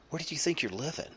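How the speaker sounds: high, disbelieving retort; mock amazement at the in-law; teasing disbelief; incredulous.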